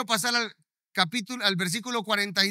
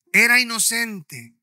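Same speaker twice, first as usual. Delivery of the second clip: era inocente, said louder and slower; a mournful crowd's louder, slower cry; louder, slow repeat; 7 dB louder, slower than usual. Retold or imitated. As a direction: lean in hard on the second era inocente.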